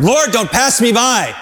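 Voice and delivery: calling out. Shown as a demonstration. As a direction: cry it out to the Lord as a model. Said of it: "Let's say that together".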